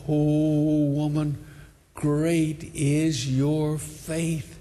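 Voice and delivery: very slow, drawn-out wonder; acted solemn praise, stretched out slowly; moved admiration. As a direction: let each word linger tenderly. Acts Jesus marvelling at her faith.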